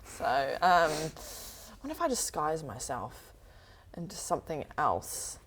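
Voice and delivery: soft unvoiced whisper. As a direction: whisper it while hiding. Whispering while hiding.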